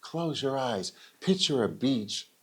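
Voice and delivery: slow, soothing mock guided imagery; imitating a slow meditation guide; mock calm speaker. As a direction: draw out the words like a relaxation coach. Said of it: "he's like".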